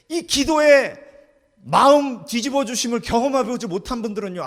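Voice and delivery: high, loud pulpit emphasis; forceful sermon delivery; emphatic preaching. Real, not acted. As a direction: drive the point home to the church.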